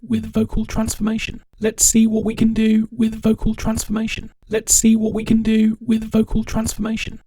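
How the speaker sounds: monotone robotic fixed pitch; fixed-pitch robotized voice. Shown as a demonstration. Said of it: "much more roboty kind of approach".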